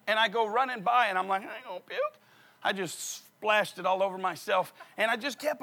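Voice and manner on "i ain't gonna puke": breathless defiance. Retold or imitated. Replying to lady while running.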